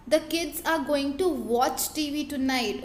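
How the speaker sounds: very slow, word by word, clearly spaced; slow example reading. Shown as a demonstration. Teacher reading example sentences aloud to students, slow and deliberate. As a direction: read it out slowly for the students to follow. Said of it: "तो कौन सा होगा".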